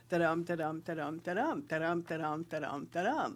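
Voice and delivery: steady da-DUM beat like a walking horse; horse-walk rhythm. Shown as a demonstration. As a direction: chant the iambic beat evenly. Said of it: "as I was riding along behind the cattle".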